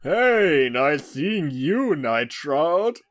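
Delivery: sleazy pickup line. Acted. Character greets in loud drawn voice.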